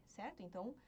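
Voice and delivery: normal talking voice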